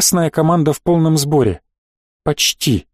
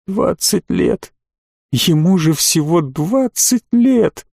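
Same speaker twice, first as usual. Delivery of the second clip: slow, pained lament; groaning; 2 semitones higher, slower than usual. A narrator's reading. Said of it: "но тут же простонал". (медленный горестный стон)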